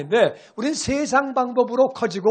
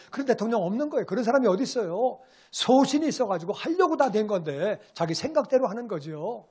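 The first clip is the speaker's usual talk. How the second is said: normal talking voice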